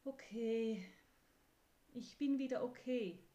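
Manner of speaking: telling itself it is fine again; horse thinking aloud. Acted. Horse calming itself after its rage, firm and a bit loud. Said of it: "denkt Pferds".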